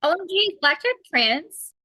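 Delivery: high, gushing delight; excited. Real, not acted. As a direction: squeal it out in mock celebration. Gushing joke about trans pegasus.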